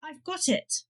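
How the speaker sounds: sudden eureka cry at ordinary volume; mild narrated shout. A narrator's reading. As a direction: call it out in a restrained mock shout. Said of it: "suddenly stop and shout".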